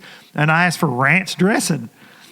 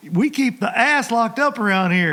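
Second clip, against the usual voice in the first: mock outraged clerk; 6 semitones higher than usual. Mock clerk scolding hillbilly customer.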